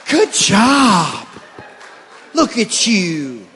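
dad cheering his dog mid-business; cheerleading the dog. Acted. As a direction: cheer like a proud coach.

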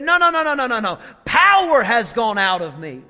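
loud, firm no, no, no; Jesus insisting. Acted. Jesus answers Peter with a loud, firm insistence. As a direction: insist hard that power has gone out.

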